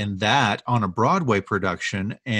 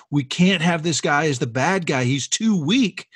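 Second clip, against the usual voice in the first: higher, worked-up mock protest; super upset; 4 semitones higher than usual. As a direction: protest as an upset colleague, retold. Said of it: "super upset".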